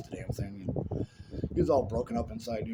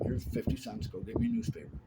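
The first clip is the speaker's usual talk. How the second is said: dad's order, pitched much higher; a lightly mocked father sending the kid off; high mock voice of a father giving orders; imitating dad; 12 semitones higher than usual. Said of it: "send me an envelope saying".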